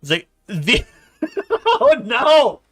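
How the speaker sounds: high, slow indignant dragon. Acted. GM voices dragon Camilla.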